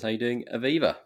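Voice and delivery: a clumsy attempt at an accent on "How you doing, Aviva"; terrible put-on accent. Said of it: "First of all, terrible accent".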